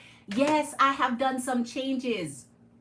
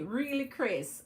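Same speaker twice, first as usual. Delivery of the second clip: slow, careful Really, Chris; Really, Chris taken slow and deliberate; said slowly; 2 semitones higher than usual. Shown as a demonstration. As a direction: spell out Really, Chris slowly so the name doesn't trip. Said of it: "you're a tongue twister for me".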